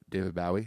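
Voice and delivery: "Bowie" said as BOW-ee, rhyming with wowie; first syllable of "Bowie" like "now"; British-style pronunciation. Shown as a demonstration. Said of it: "you know how he pronounces".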